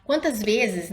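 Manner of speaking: ordinary talk, nothing marked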